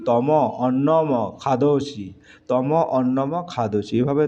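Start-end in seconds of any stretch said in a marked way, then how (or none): 0.1-2.1 slowly and clearly, like a teacher dictating; slow careful dictation. Shown as a demonstration. Teacher reading Sanskrit to students, slow and deliberate. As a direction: spell each word out slowly for the class. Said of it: "এটা মানে কি?".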